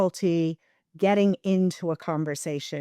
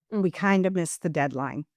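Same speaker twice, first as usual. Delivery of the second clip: hedged. Shown as a demonstration. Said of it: "That subtle change".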